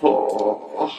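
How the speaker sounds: slow, low mock cartoon hunter; lightly voiced Elmer Fudd. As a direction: drag it out like a dopey cartoon. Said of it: "It'll be like this".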